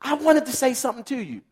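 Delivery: high, lively call of whoa to stop someone leaving; a playful God hollering wait, whoa; God calling after you. Retold or imitated. God calling back a hurried praying believer, lightly playful. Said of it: "And we kinda leave God with".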